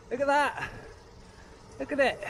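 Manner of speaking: high, eager look at that; excited pointing. Real, not acted. Cyclist shows viewers the view, thrilled. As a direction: point it out with delight.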